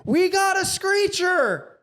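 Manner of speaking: very high, slow drawn-out shout; teen mocking across the gym, high and slow; yelled taunt. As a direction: call it across the room, stretched high. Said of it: "Yells over to this other kid".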